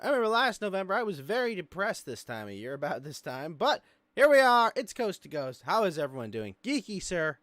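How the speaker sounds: high, loud, hyped host welcome; show-opening announcer. Real, not acted. Host opening the show after the pre-show, big announcer voice. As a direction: belt out the show intro.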